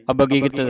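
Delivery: ਅਵਗਤ as a-bi-git, with i sounds; wrongly detached prefix. Shown as a demonstration. Teacher imitates readers' mistake, ਅਵਗਤ as a-bi-git. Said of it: "ਐੜੇ ਨੂੰ ਸੰਬੰਧਕ ਲਾ ਕੇ".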